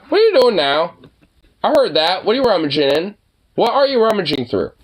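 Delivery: scolding the dog. Real, not acted. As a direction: call out a pet caught misbehaving. Catching the dog rummaging.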